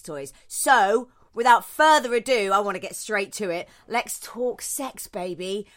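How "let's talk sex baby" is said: teasing sultry. Acted. Teasing guest introduction.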